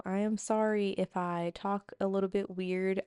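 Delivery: talking around a sore tongue; careful speech, tongue hurts. Real, not acted. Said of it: "cut or something on my tongue".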